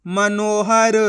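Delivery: मनोहर said in stretched, even syllables; blended word reading. Shown as a demonstration. Teacher showing the joined-up word, slow blending. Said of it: "तो मिलके बन जाएगा".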